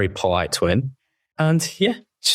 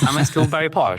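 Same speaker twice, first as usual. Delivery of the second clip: laughing, quicker and higher; 8 semitones higher, faster than usual. Real, not acted. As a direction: laugh through the question. Laughs about his posh voice.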